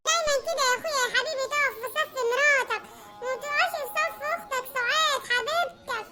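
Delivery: guilt-trip your brother for siding with his wife; sister-in-law voice. Acted. Suad reproaches her brother.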